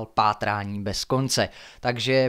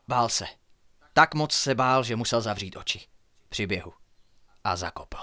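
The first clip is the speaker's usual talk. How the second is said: measured, hushed suspense reading; story narration. A narrator's reading. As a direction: read a mystery aloud at night. Narrates the escape.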